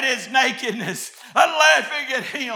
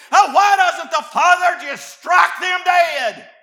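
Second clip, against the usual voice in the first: fiery preaching. Acted. Preacher thunders to the church at full force. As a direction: preach it hard to the congregation.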